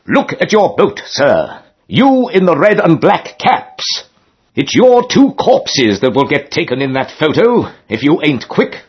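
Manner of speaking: high, booming warning, slow on the caps; stentorian shout. A narrator's reading. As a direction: bellow from the back of the lock. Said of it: "a stentorian voice from the back shouted".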